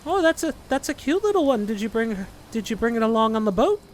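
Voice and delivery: Ellie voice. Acted. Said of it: "Ellie turns to you and goes".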